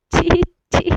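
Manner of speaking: loud, high "छी, छी" of disgust. A narrator's reading. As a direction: spit out the disgust. Disgust at the insult. (घृणा से ज़ोर से "छी, छी")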